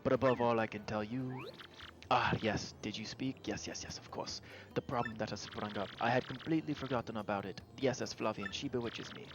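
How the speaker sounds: lightly voiced grandiose ship owner, dramatic; pompous Flavio. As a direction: swoon over the ship like a vain nobleman. Voicing Flavio character.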